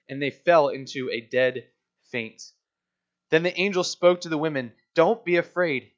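measured, deliberate Bible reading; scripture reading. Acted. Pastor reads Matthew aloud.

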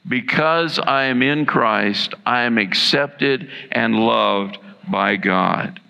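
slow, steady declaration; slow unison affirmation. Shown as a demonstration. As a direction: lead them through each word slowly. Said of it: "Say that with me".

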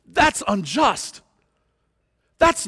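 high, slow, whiny protest; drawn-out childish complaint rising on fair; mock objector. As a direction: whine it like an indignant complainer. Imagined objection voiced mockingly.

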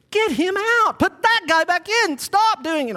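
high-pitched, insistent fan hollering; worked-up sideline demands; fired-up armchair coach. Acted. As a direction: bark orders at players who can't hear. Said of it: "These coaches would just listen to me".

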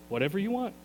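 quiet, yielding repeat; soft surrender. Pretend. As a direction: hand it over gently. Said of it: "an attitude that says".

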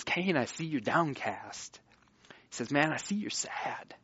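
soft, gentle word to a friend; friendly concern. Acted. God coming to downcast Cain as a friend, softly concerned. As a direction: drop the volume and speak as a caring friend. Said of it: "he talks to him like a friend".

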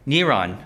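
Neron said NEE-ron with a nasal final on; Neron, stressed on the first syllable; Hebrew name pronunciation. Shown as a demonstration. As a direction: model the old pronunciation Neron. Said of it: "that's how they said it".

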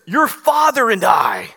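loud, slow rebuke from an upset mother; mother's rebuke. Retold or imitated. Mary rebuking her son, loud and slow. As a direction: call it out like a scolding mother. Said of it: "did you hear what she says".

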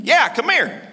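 high, insistent parrot call; parrot beckoning. Acted. Parrot summoning the man over, beckoning.

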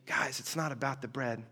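gentle, soft and unhurried; calmly help them finally see it; patient explaining. Retold or imitated. Jesus patiently explains to the confused disciples, soft and calm. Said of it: "explained patiently".

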